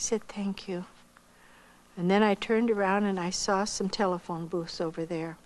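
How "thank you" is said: faint, unvoiced thank you; whispered thanks. Real, not acted. Choked up woman thanking the kind clerk, whispered. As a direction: barely get the words out, choked.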